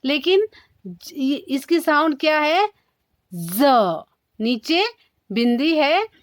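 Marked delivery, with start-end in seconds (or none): 3.3-3.6 ज as a drawn-out buzzing z; dragged z. Shown as a demonstration. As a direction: drag the z at the start of ज. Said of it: "आवाज घसीट के देनी है". (ज को घसीटकर ज़ बोलें)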